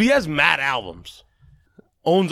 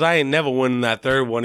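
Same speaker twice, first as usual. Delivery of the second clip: mock Southern accent; 3 semitones lower than usual. Singer doubting his award chances, mock Southern accent. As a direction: lean into the Southern twang. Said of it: "he's, like, a little too Southern".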